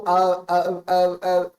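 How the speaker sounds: stalling uh sounds; mock fumbling. Shown as a demonstration. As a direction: demo of hesitant uh-uh stammering. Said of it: "if you just go".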